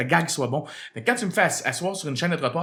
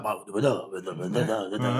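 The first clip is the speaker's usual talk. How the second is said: Québécois musicality; 6 semitones lower, slower than usual. Retold or imitated. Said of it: "ils ont une musicalité différente de la nôtre".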